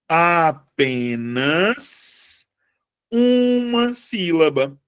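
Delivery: slow teaching emphasis; stress on uma. Shown as a demonstration. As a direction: spell it out: apenas UMA sílaba. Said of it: "teaching stress on one syllable".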